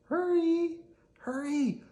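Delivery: high, anxious hurry; urgent. Acted. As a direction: urge them along anxiously. Parent urging in car.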